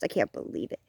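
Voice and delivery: unvoiced whisper of embarrassment; whispered to self. Scolding herself for the past, whispered. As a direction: breathe it out, ashamed. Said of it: "because I'm like".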